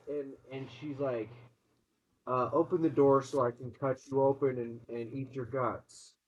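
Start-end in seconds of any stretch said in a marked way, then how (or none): 2.5-6.1 a possessed mother promising gore; weird demon voice. Acted. Possessed mom threatening her kids through the door, eerie. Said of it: "in that weird-ass voice".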